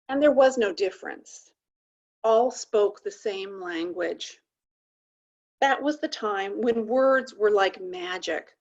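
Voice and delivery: measured storytelling read with long pauses; deliberate, spacious poetry reading; poem recitation. Acted. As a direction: read it like an old myth, line by line. Reads a poem aloud.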